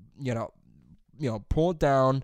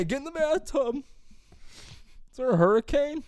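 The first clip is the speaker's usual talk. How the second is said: high-pitched comic alarm, slowing on the question; mock panic; 12 semitones higher, slower than usual. Family sheltering from dad's yell, mock panic. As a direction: play a frightened family member in a pretend storm.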